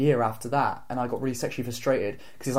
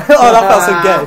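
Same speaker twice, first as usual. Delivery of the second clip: loud laughing, voice up high; cracking up mid-sentence; 6 semitones higher, 13 dB louder than usual. Real, not acted. Laughing to friends about the awkward kiss.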